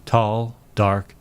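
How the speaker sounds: lightly voiced noir detective narration; measured storytelling in a hint of deep voice; deep-voiced narrator. Detective recounts a client walking into the office, deep narrator voice. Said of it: "now she's got a permanently deep voice".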